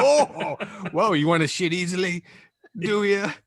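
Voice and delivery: high, loud taunting mock yell; mocking guard. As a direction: taunt the kid like a hammed-up jailer. Playing the scare-straight officer.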